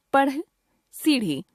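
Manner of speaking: "पढ़, सीढ़ी" with an aspirated retroflex flap; dotted ढ़ flap. Shown as a demonstration. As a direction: flick the tongue with breath on ढ़ in "पढ़" and "सीढ़ी". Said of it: "आइए इनका उच्चारण करके देखते हैं". ("पढ़, सीढ़ी" में ढ़ का उत्क्षिप्त उच्चारण)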